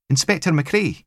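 high lilting Highland question; lilting Highland query; sing-song Highland accent. A narrator's reading. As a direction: check his name in a sing-song Highland voice. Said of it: "sing-song Highlands and Islands accents".

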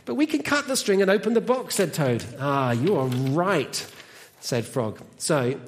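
animated storytelling with deliberate pauses; children's story reading. Acted. Reads a children's story aloud.

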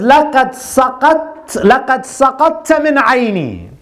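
a king's disappointed rebuke; dismayed scorn. Acted. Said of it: "he looks at him in dismay".

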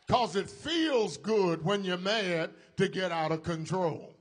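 loud, fervent preaching shout; preacher shouts about losing control. Real, not acted. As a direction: belt it out to the congregation. Preacher confessing anger, shouting.

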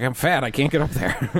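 mock cat complaining about the bed; voicing the cat. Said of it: "a little high, guys".

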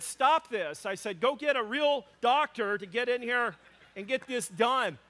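hammed-up husband putting his foot down; mock indignant demand. Husband demanding a real doctor, mock indignant.

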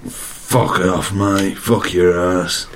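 low Cockney hard man; growled-down London tough guy; low, menacing action-hero put-on; Jason Statham. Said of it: "Jason Statham".

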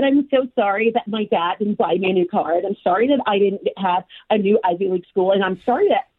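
lightly put-on professional voice; a touch of polite, job-getting fake voice. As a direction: slip slightly into a code-switched work voice. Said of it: "That's my professional voice".

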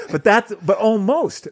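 real laugh breaking through the words; laughing while talking. Real, not acted. Cohost laughing at the Kenny joke, real laughing. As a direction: talk through a laugh, slowed down.

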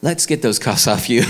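deadpan, sheepish cop voice; a lightly voiced officer; apologetic police officer. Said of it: "the officer looks at him and says".

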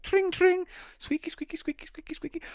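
high tiny squeaks fading out; bike bell and squeaks. Acted. Improv cyclist making bike noises, high squeaks.

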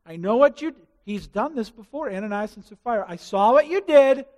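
rising to a loud stern rebuke; stern God voice. Acted. God confronting Cain, a loud stern rebuke. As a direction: confront him like an angry God.

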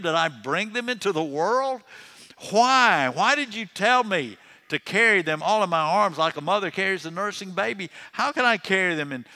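high, loud aggravated tirade, easing toward the end; Moses. Retold or imitated. Preacher voices Moses arguing with God, aggravated. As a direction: fire off exasperated questions in mock protest.

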